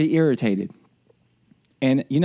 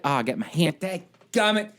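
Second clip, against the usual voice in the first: laughing grumble of a tired officer; lightly voiced fed-up officer; mock annoyed officer; 4 semitones higher than usual. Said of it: "They get tired of".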